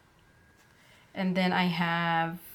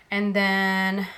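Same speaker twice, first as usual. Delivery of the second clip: winded, catching breath between words; 5 dB louder than usual. Real, not acted. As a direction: talk while still breathless. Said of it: "I'm out of breath".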